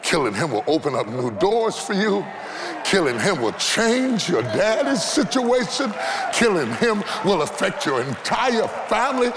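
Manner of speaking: normal talking voice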